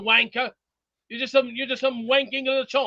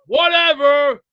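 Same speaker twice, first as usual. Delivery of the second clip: a quicker, shorter "Whatever" clipped off; curt dismissive whatever; 3 semitones higher, 8 dB louder, much slower than usual. Real, not acted. Streamer repeating his brush-off to chat, quicker. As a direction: toss it away fast this time.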